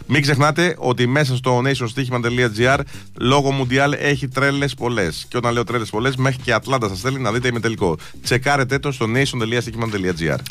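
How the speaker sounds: steady, low-pitched radio ad read. Acted. Radio host reads sponsor messages to listeners, ad read.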